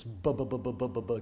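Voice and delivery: repeated bu syllables, mocking gibberish; babbling mock speech. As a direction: imitate foreign babble as nonsense. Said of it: "it sounded like this".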